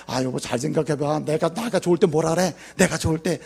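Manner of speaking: wife wheedling her husband, hushed; coaxing wife. Retold or imitated.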